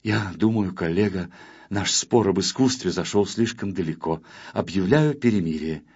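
low, measured peace offer; conciliatory. A narrator's reading. Artist shakes his rival's hand, conciliatory. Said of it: "примирительно".

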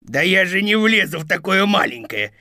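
growling wolf. Acted. Wolf to Thumbelina, growling protest. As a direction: grumble back like an irritated wolf. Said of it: "прорычал волк".

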